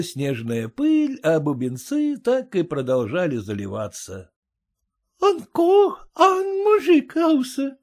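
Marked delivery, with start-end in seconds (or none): 5.2-7.8 put-on French accent. A narrator's reading. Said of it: "указала француженка".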